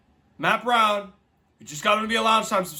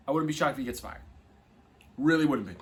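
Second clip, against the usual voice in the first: softer, lower murmured repeat; quiet repeat; 5 semitones lower, 5 dB quieter, faster than usual. Real, not acted. Vlogger repeating prediction to viewers, quiet aside. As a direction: say it again to yourself.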